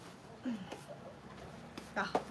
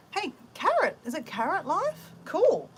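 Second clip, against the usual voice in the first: interviewer voice; 9 semitones higher, 3 dB louder, slower than usual. Pretend. Voicing the interviewer.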